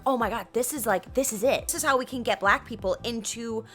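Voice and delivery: eager, building to a loud laughing finish; mock excited communist, rising to a shout; communists voiced. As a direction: gush like a giddy plotter.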